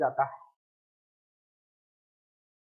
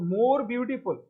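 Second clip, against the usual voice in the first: slow example; 2 semitones higher, much slower than usual. Shown as a demonstration. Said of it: "यहाँ पर देखो".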